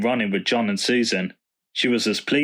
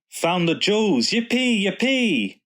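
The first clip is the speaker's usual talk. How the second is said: excited cheer; 10 semitones higher than usual. A narrator's reading. Susan thrilled the jewels are found, high excited cheering. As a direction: cheer it out like a thrilled little girl. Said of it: "she scrabbled excitedly".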